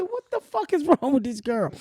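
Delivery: incredulous laugh through it; laughing retort. Retold or imitated. She laughs in disbelief at the singer. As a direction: laugh at the absurdity. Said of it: "I said".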